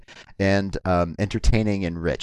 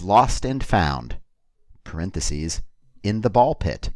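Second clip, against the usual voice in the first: poem title. Acted. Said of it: "I'm gonna do a poem".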